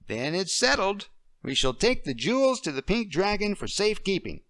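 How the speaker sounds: a little girl playing queen; child playing queen. A girl playing the queen for Deirdre.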